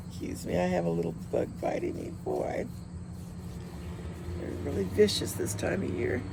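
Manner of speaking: quick hushed apology mid-reading; whispered aside. Real, not acted. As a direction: drop to a whisper for an off-mic aside. Whispered aside about a bug.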